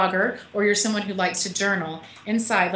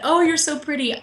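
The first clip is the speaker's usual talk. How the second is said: a touch higher, lighter coo; cooing at baby; 7 semitones higher than usual. Retold or imitated. Author retells cooing at her book, mildly. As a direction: admire it gently like a baby. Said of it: "I said".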